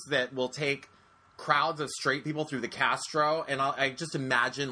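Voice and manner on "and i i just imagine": normal talking voice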